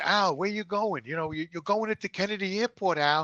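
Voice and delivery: a hint of an exasperated wife; lightly voiced mother. Voices worried mother in story.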